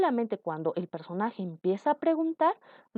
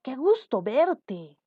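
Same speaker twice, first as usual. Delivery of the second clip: sorpresa; 5 semitones higher, 3 dB louder, slower than usual. Shown as a demonstration. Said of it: "De sorpresa".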